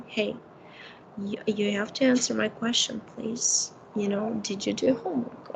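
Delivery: quietly calm, patient and even; calm request. Shown as a demonstration. Parent calmly asking a child about homework, softly even. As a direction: ask gently and steadily, no edge. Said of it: "look into their eyes and calmly say".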